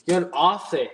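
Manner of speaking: put-on "You're in Aussie" in a light, jokey Australian accent; mock Australian accent. Answering a viewer from Australia, light mock Australian accent. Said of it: "I felt like saying a racist Australian accent".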